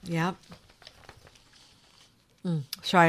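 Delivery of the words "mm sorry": talking while chewing chocolate; mouth full. Real, not acted. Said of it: "I'm eating a piece of chocolate".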